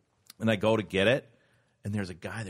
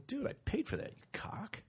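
hissed insult; 12 semitones higher, 11 dB quieter than usual. Retold or imitated. Cursing the church guy.

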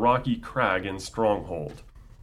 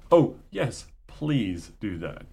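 mock polite; slower than usual. Lecturer mimicking a polite God in the Qumran text, mock sweet. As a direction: play God sweetly asking a favour. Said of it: "I just love how polite God is".

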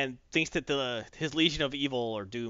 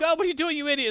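high, indignant villain squawk; outraged villain; 12 semitones higher, faster than usual. Retold or imitated. Vandal Savage outraged at Luthor, high and indignant. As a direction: squawk at him in disbelief. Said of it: "Vandal Savage is like".

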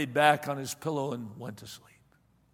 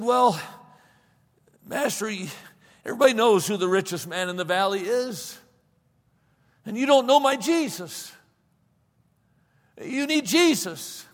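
higher, rising fervent plea; earnest plea; 4 semitones higher than usual. Acted. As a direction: press the point with growing fervour. Mose urges master to find Jesus.

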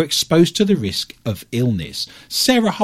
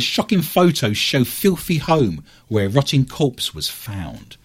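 tabloid tv host; 2 semitones lower, slower than usual. Acted. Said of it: "I have a story here that says".

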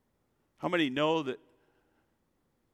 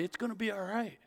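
calming; 6 semitones higher, 4 dB quieter than usual. Pretend. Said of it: "calm them down and say".

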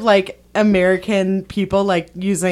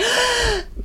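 high, soft mock gasp; retold gasp; 13 semitones higher, 7 dB quieter than usual. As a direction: gasp as if spotting a clue. Retells reacting to a movie clue.

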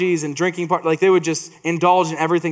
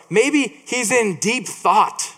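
mocking taunt; 4 semitones higher, much slower than usual. Elijah taunting Baal's prophets.

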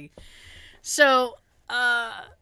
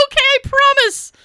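friend's voice; 7 dB louder than usual. Retold or imitated.

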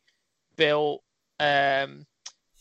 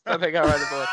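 a mock shout on the third go, louder each time; excited shout; 3 dB louder, much faster than usual. Shown as a demonstration. Acting out the soundboard joke for friends with a mock shout. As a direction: belt the punchline of the gag.

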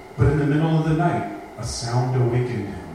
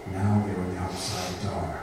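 hushed suspense; 6 semitones lower, 8 dB quieter than usual. A narrator's reading. Suspense before the ghost line.

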